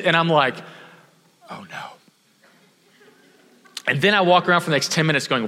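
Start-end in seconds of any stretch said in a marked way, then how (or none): 1.5-1.8 a hushed, sinking oh no; soft-spoken oh no as it dawns; quiet dismay. Retold or imitated. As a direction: barely voice the realization. Realizing the tip shot off.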